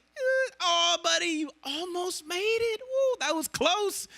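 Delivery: a playful coach saying so close; mock cheery God. Imagined God cheering almost-good sinners, high and slow.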